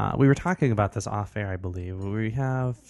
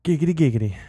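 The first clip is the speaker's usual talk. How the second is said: Quagmire impression; 5 semitones higher, 5 dB louder, faster than usual. Quagmire catchphrase.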